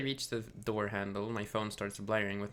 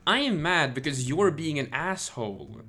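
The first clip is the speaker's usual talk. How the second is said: louder, pressing every word; retold angry retort; 4 semitones higher, 8 dB louder than usual. Streamer retelling telling someone off. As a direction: lay it on them hard. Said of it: "And I'm like".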